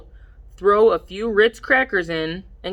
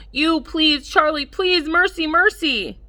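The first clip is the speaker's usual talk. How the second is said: much higher, pleading through laughter; begging for mercy; 10 semitones higher than usual. Acted. Pinned down by Charlie, begging mercy high and helpless. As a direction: beg the little brother to stop, helpless. Begging under tickle attack.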